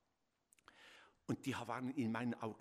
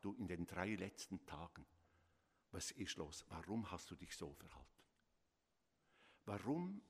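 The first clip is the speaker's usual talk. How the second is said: gentle questioning; 3 dB quieter than usual. Retold or imitated. Parents calmly questioning child.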